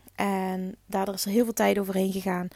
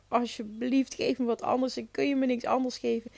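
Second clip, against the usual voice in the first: pleading; 2 semitones higher, 4 dB quieter than usual. Retold or imitated.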